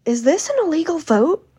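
high, loud mock-shocked question; high-pitched affronted imitation; indignant question. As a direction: imitate an outraged senator, pitch shooting up. Acts out indignant senator's question.

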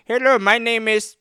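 imitating a cheerful tech support rep; mock support rep. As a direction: play a chipper phone agent, slowing on the name. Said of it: "And it was like".

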